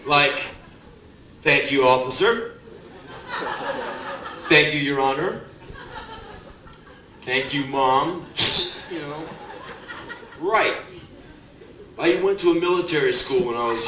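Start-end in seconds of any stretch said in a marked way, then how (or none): 1.4-8.3 sarcastic thanks. Shown as a demonstration. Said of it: "said the word thank and meant the word fuck".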